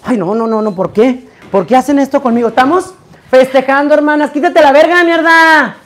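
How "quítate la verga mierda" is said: loud, high snap telling someone to move; angry yell. Real, not acted. Yelling at a helper to get out of her way, angry. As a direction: bark at him to get out of the way.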